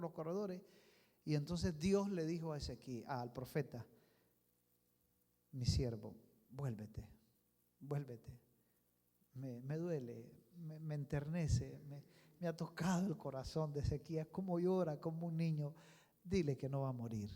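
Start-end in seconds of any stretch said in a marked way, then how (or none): 5.5-17.3 voice of God. Acted. God speaking to the prophet.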